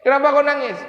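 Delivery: high, loud acted call to a child; acted loud, high-pitched questioning. Acts the Prophet calling a child.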